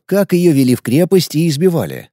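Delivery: ordinary delivery, nothing marked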